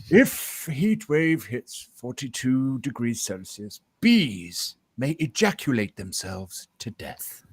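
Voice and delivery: lightly voiced nature narrator, slow; a hint of a hushed documentary narrator; David Attenborough. Sharing a bee fact in nature documentary style, slow. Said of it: "my David Attenborough days".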